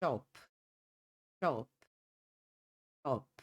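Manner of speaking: British "chop" with a closed, rounded o; British pronunciation. Shown as a demonstration. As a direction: say chop with rounded lips, "aw"-like vowel. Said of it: "Tom mais fechado, no inglês britânico".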